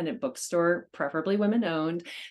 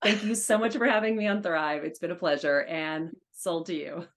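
auctioneer voice; 4 semitones higher than usual. Shown as a demonstration. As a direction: close the bidding with auctioneer flourish. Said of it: "give us a tidbit of your auctioneer voice".

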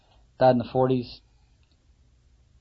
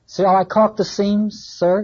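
higher, louder eager carpenter; carpenter asking; 5 semitones higher, 5 dB louder, slower than usual. Acted. Carpenter asking Ahab about the lid, eager and loud. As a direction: ask the captain keenly, hammer in hand.

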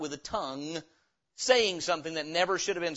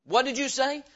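higher-pitched challenge, acted out; touchy retort; 6 semitones higher than usual. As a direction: fire it back as if offended.

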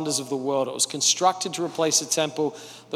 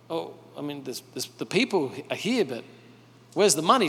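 puzzled mutter; 5 dB quieter than usual. Retold or imitated. Merchant voiced in retold story.

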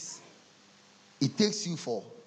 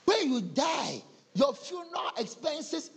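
put-on bank girl voice; 10 semitones higher than usual.

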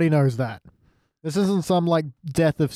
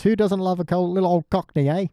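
put-on chirpy Cockney, slightly raised; Cockney accent; 4 semitones higher than usual. Co-host mocking the episode's stenographer, put-on Cockney accent. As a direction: do a mock sympathetic Cockney. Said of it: "putting on his most sympathetic Cockney accent".

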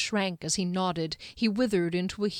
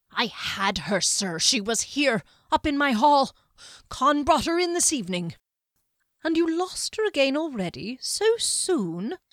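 higher, tense voice of a cornered servant; nervous underling; 7 semitones higher, 5 dB louder than usual. A narrator's reading. Servant excusing himself to the wizard, higher and nervous. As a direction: sound like a flustered lackey making excuses.

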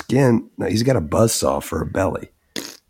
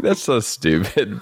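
laughing; 3 semitones higher, slower than usual. Retold or imitated. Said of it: "I was like".

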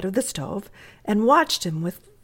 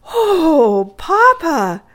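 high, loud, delighted cry; overjoyed; 10 semitones higher, 9 dB louder, much slower than usual. Acted. Edith thrilled by Papa's offer to invite Bertie, overjoyed. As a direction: burst out in wonder, pitched right up. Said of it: "her eyes shining like stars".

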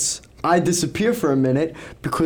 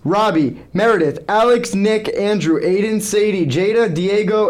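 raised rapid-fire name callout; auctioneer voice; 5 semitones higher than usual. Acted. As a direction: rattle off names like an auction. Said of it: "he's gonna put on his auctioneer voice".

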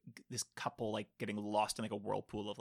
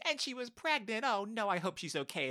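higher-pitched gossipy worry; mock concern; 9 semitones higher than usual. Imitating a viewer fretting over missing woman, mock concern. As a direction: put on a fretful, sympathetic moviegoer. Voicing a worried, fooled viewer.

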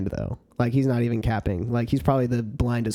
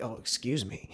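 sheepish apology; 4 semitones lower, 11 dB quieter than usual. Retold or imitated. Apologizing to a cutout.

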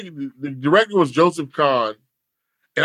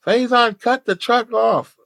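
calling out; 5 semitones higher, slower than usual. Retold or imitated. Acted order called to him.

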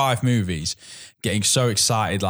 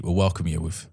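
velvety voice; 4 semitones lower, 3 dB quieter than usual. Acted. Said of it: "Oh, that's very velvety".

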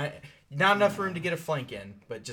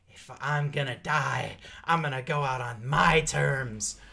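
grim last vow; 4 dB louder, slower than usual. Acted. GM voices dying priest's last vow.

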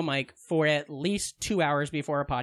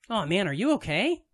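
folksy. Shown as a demonstration. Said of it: "a folksy farm voice".

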